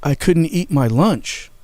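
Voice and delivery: put-on high, drawn-out little-kid whine; imitated crying. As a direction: mildly mimic a crying little brother. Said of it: "And he's crying. He's just like".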